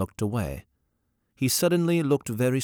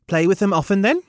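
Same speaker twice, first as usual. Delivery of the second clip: put-on young woman character voice; 10 semitones higher, 5 dB louder, faster than usual. Gallowglass asks.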